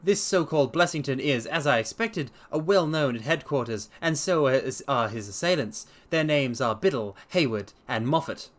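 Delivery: lightly voiced confident sleuth; Holmes voice. Holmes promising to clear up the case, assured.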